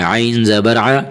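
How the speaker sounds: عین spelled out with a throat ain; sounded ain. Shown as a demonstration. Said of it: "یہاں عین کی آواز نکالیں". (عین کی آواز نکال کر)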